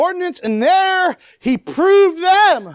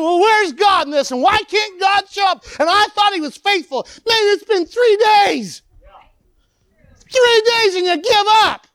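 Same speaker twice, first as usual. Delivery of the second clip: mock shouted complaint; 5 semitones higher than usual. Preacher voicing shouting complainers.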